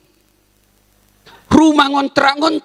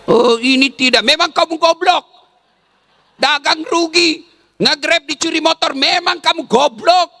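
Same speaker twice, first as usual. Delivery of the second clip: a touch of a scolding husband, mocking his wife; mildly acted harsh husband scolding; 2 semitones higher than usual. (suami yang memarahi dengan ringan)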